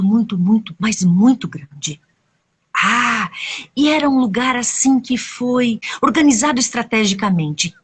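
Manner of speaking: put-on animated telling of a children's tale; expressive storyteller with dramatic pauses; story narration. A narrator's reading. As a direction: stretch key words, lifting the pitch as events build.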